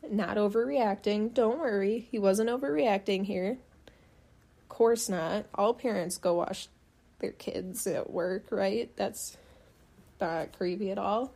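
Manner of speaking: dry, sarcastic mock reassurance. Real, not acted. Podcaster mocking a father's excuse for watching his daughter, sarcastic. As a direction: say it as if you believe none of it. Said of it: "I'm being very sarcastic".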